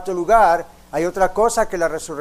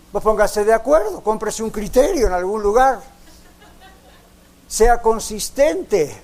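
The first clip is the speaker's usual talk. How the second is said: emphatic preaching; 4 semitones higher, 4 dB louder than usual. Real, not acted. Exhorts the congregation emphatically.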